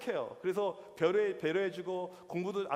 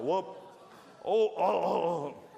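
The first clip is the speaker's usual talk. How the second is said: loud, drawn-out queasy groans; mock gagging; 3 semitones lower, 4 dB louder, much slower than usual. Preacher acting out a sickening smell, mock gagging groans. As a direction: groan as if about to throw up.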